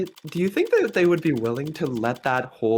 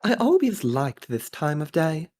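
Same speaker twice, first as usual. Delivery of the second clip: put-on upper-class Australian voice; posh Australian accent. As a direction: speak with a posh Aussie accent. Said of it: "I'm going for posh Australian".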